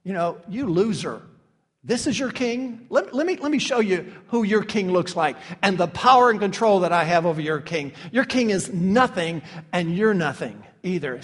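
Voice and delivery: mocking taunt. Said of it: "he's really mocking Caiaphas".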